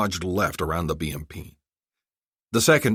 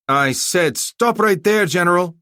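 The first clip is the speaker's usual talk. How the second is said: higher, louder, slow angry command; angry warning; 12 semitones higher, 7 dB louder, slower than usual. Acted. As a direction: warn him one last time. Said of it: "Zolkadar radioed back".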